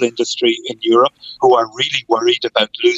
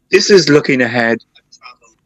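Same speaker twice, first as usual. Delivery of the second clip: voice cutting out; 3 dB louder than usual. Real, not acted. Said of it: "your voice is going in and out there".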